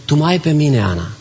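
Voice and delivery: a touch of tender comfort; gentle reassurance. Retold or imitated. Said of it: "îi spune".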